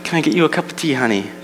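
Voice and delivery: halting, pitying condolence for laughs; mock sympathy. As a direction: console them with overdone pity, pausing between phrases. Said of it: "they're like".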